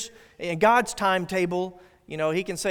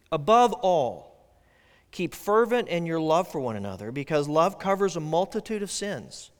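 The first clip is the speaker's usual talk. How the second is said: scripture reading. Acted. Pastor reads verse eight to the congregation, solemn. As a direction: read it out solemnly to the church.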